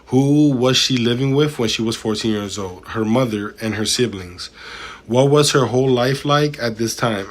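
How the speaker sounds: measured, deliberate reading voice; transcript read-aloud. A narrator's reading. Streamer reads testimony to chat, deliberate read-aloud. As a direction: read it out word by word, formally.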